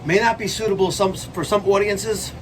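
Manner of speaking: high dramatic announcer voice; ominous trailer warning; mock warning.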